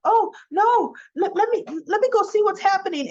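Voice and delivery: put-on high, fast, anxious girlfriend voice; a flustered pitch-up as Abby; Abby's voice. Girlfriend wanting to break up the fight, high anxious voice.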